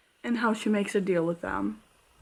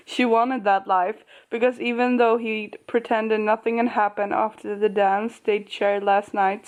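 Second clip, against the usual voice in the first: story reading. Acted. Reading the book to her viewers, storytelling. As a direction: read the passage like a storyteller.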